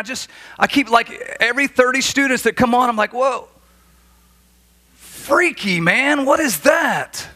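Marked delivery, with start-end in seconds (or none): 3.1-7.3 mock amazed shout. Preacher retells seeing eyeliner.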